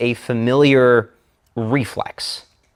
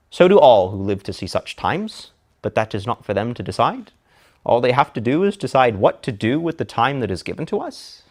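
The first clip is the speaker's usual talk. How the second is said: Gandalf with uptalk. Shown as a demonstration. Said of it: "Imagine if Gandalf ... used uptalk".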